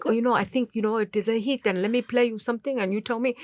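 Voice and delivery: lightly imitated French accent; English with a light French lilt. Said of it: "I speak a little bit of French".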